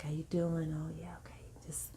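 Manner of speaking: soft, easy voice of a supportive husband; soothing coach. Retold or imitated. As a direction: lightly imitate gentle reassurance. Retelling husband coaching through contractions.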